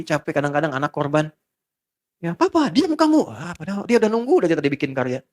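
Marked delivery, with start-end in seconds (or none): 2.2-3.2 irritated father. Retold or imitated. Father snapping at child.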